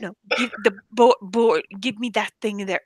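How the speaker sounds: fumbling for the word in imitated Arabic accent; lightly mocked Jordanian accent, stumbling; strong Arabic accent. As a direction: stammer the order with an Arabic accent. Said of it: "somebody with a strong accent".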